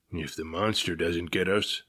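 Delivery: lightly voiced gloomy captain; muttering captain. A narrator's reading. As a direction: grumble it under your breath. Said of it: "muttered the captain".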